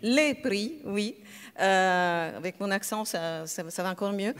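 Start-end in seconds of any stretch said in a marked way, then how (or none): 0.0-0.7 Les stressed so it is clearly plural, a touch higher. Shown as a demonstration. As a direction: lean on Les in Les prix to mark the plural. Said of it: "au pluriel".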